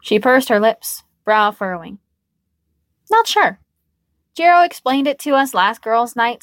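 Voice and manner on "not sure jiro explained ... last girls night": put-on high uncertain girl voice. Uncertain young woman voiced.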